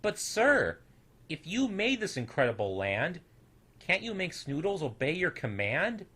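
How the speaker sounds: put-on a small boy daring a big question; suddenly bold. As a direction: bold little boy's challenge, pitched high. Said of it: "grew suddenly bold".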